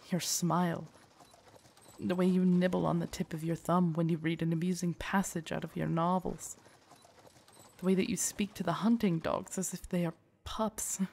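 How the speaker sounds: tender confession. Acted. Guard confessing love, then regret.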